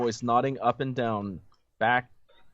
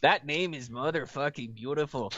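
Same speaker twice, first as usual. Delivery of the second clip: put-on light Hispanic accent, half-hearted; a hint of a Hispanic accent; 2 semitones higher, 3 dB quieter than usual. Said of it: "do the Hispanic accent".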